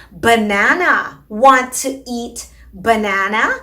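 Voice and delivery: slow coaxing parentese. Shown as a demonstration. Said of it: "and say".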